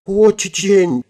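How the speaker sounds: high, squeaky feigned fear; acted timid squeal; trembling. A narrator's reading. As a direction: squeak it like a scared little thing. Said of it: "дрожащими губами произнесла я".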